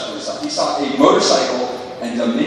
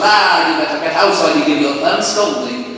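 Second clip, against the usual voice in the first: lightly prim English scolding; a polite English telling-off; a hint of English gentility; mock British biker; 4 dB louder than usual.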